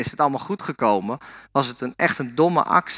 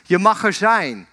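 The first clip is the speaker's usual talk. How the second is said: mildly raised, positive call; father calling out; 3 semitones higher than usual. Retold or imitated. Father calls something positive for his son, calling out. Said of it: "roept weer wat positiefs".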